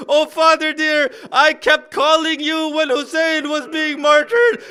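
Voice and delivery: impassioned lament with an understated yell; retold cry out. Grieving daughter calls to her dead father, retold as a mild outcry. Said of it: "she yells out".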